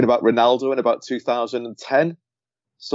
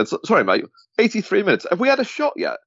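put-on old journalist mate; 10 semitones higher than usual. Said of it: "it's like an old lad".

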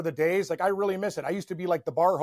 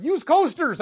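high, louder scolding call; mock host yell; 9 semitones higher, 6 dB louder, slower than usual. Keg party host to rowdy guests, raised yell. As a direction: shout over the party crowd.

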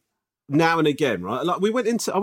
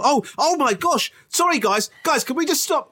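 mock shop announcement; 8 semitones higher than usual. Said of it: "why am I expecting this guy to fucking fall?".

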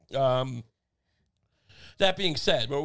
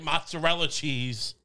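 mock pretentious guy; slower than usual. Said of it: "the guy saying".

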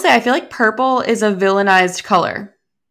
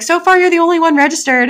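imitating instructor; 10 semitones higher, 5 dB louder, faster than usual. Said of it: "she's like".

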